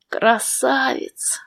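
slow, soft, dreamy admiration; dreamy sigh. A narrator's reading. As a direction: sigh it out like a smitten girl. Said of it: "Мечтательный вздох".

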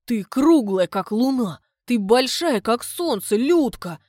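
loud earnest gushing; clumsy compliments. Acted. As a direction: pile up the comparisons proudly. Suitor continues compliments.

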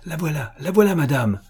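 high excited announcement; exclaiming. A narrator's reading. Maid spots the visitor for her mistress, high exclaiming. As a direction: cry out that the guest is in sight. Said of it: "s'écria-t-elle enfin".

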